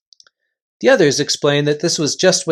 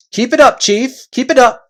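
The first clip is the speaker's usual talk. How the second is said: loud, high chanting of agreement; eager chorus voices; 9 semitones higher, 6 dB louder than usual. Acted. Followers backing their chief, loud and eager. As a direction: cheer him on as a crowd of followers.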